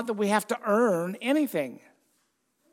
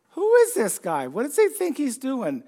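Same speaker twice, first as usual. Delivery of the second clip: indignant Pharisees; 5 semitones higher, 4 dB louder than usual. Retold or imitated. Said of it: "How did the Pharisees respond".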